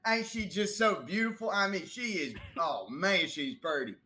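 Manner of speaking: doting shop clerk. Acted. GM voices shop clerk admiring filter.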